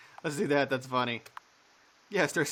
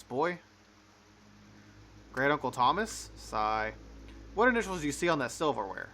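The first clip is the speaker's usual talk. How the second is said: a lightly voiced sneering father, a touch higher; scornful father; 3 semitones higher than usual. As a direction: belittle the boy with mild contempt.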